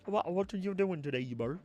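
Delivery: high, put-on British voice; British accent. Asking Bert about today, high mock British accent. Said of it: "Use a British accent".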